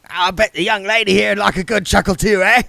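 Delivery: high, loud jolly busybody; cheerful voice. A narrator's reading. Mister Wintler greeting William with cheerful gusto. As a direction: boom it out cheerfully. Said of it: "whoopee cushion".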